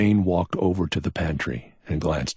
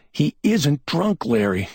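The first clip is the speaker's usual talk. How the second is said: gulping; 11 semitones higher, 5 dB louder than usual. A narrator's reading. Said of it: "Cal gulped".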